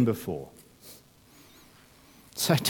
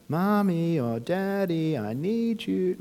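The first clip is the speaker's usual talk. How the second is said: put-on higher, slow sing-song child calling; sing-song kid call; 5 semitones higher, 4 dB quieter, slower than usual. Kids crawling out at night calling their parents, sing-song. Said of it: "in that really sing-song voice".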